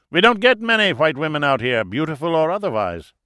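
put-on high, loud German-accented voice; German host, jovial. A narrator's reading. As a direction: introduce yourself with booming German pride. German character flatters visitor.

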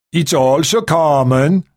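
put-on slow, lilting Scandinavian accent. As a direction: drawl it like a Danish royal. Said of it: "said with a Scandinavian accent".

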